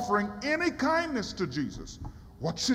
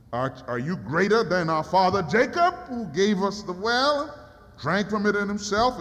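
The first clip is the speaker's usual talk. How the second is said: sarcastic woman; 3 semitones lower than usual. Acted. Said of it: "she was a little sarcastic".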